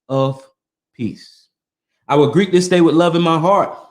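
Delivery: measured, reverent reading of a creed; solemn recitation. Acted. Reading the scroll to his listeners, solemn recitation.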